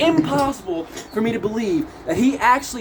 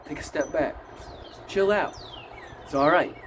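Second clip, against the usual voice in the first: low, softer, spaced-out reassurance; calming; 4 semitones lower, 7 dB quieter than usual. Retold or imitated. Clarence tells the attackers to back off, calming. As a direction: talk someone down gently.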